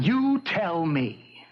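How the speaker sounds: slow, pointed, angry reply; angry retort. Acted. Husband answers wife asking what's the matter, angry. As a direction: throw the question back, drawing it out. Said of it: "Why are you so angry?".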